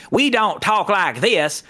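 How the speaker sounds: put-on Southern accent. Shown as a demonstration. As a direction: stretch it out like a Southerner. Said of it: "we're from the South".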